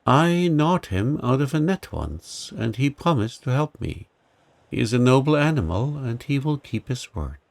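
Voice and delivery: a small creature vouching for a friend; mild squeaky mouse, earnest; mouse, proud. Acted. Mouse explains about lion.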